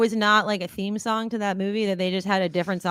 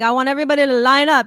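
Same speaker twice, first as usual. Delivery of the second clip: 1 DJ voice; 5 semitones higher, 8 dB louder, faster than usual. Retold or imitated. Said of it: "he's like".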